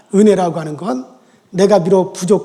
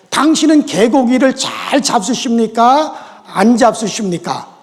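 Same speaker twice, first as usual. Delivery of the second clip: formal standard question; 2 semitones higher, slower than usual. Shown as a demonstration. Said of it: "충청도 말로".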